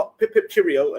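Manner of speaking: fake, put-on old-fashioned British accent. Greeting someone just introduced, jokingly: mock british accent. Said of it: "all this old bu-, British bullshit".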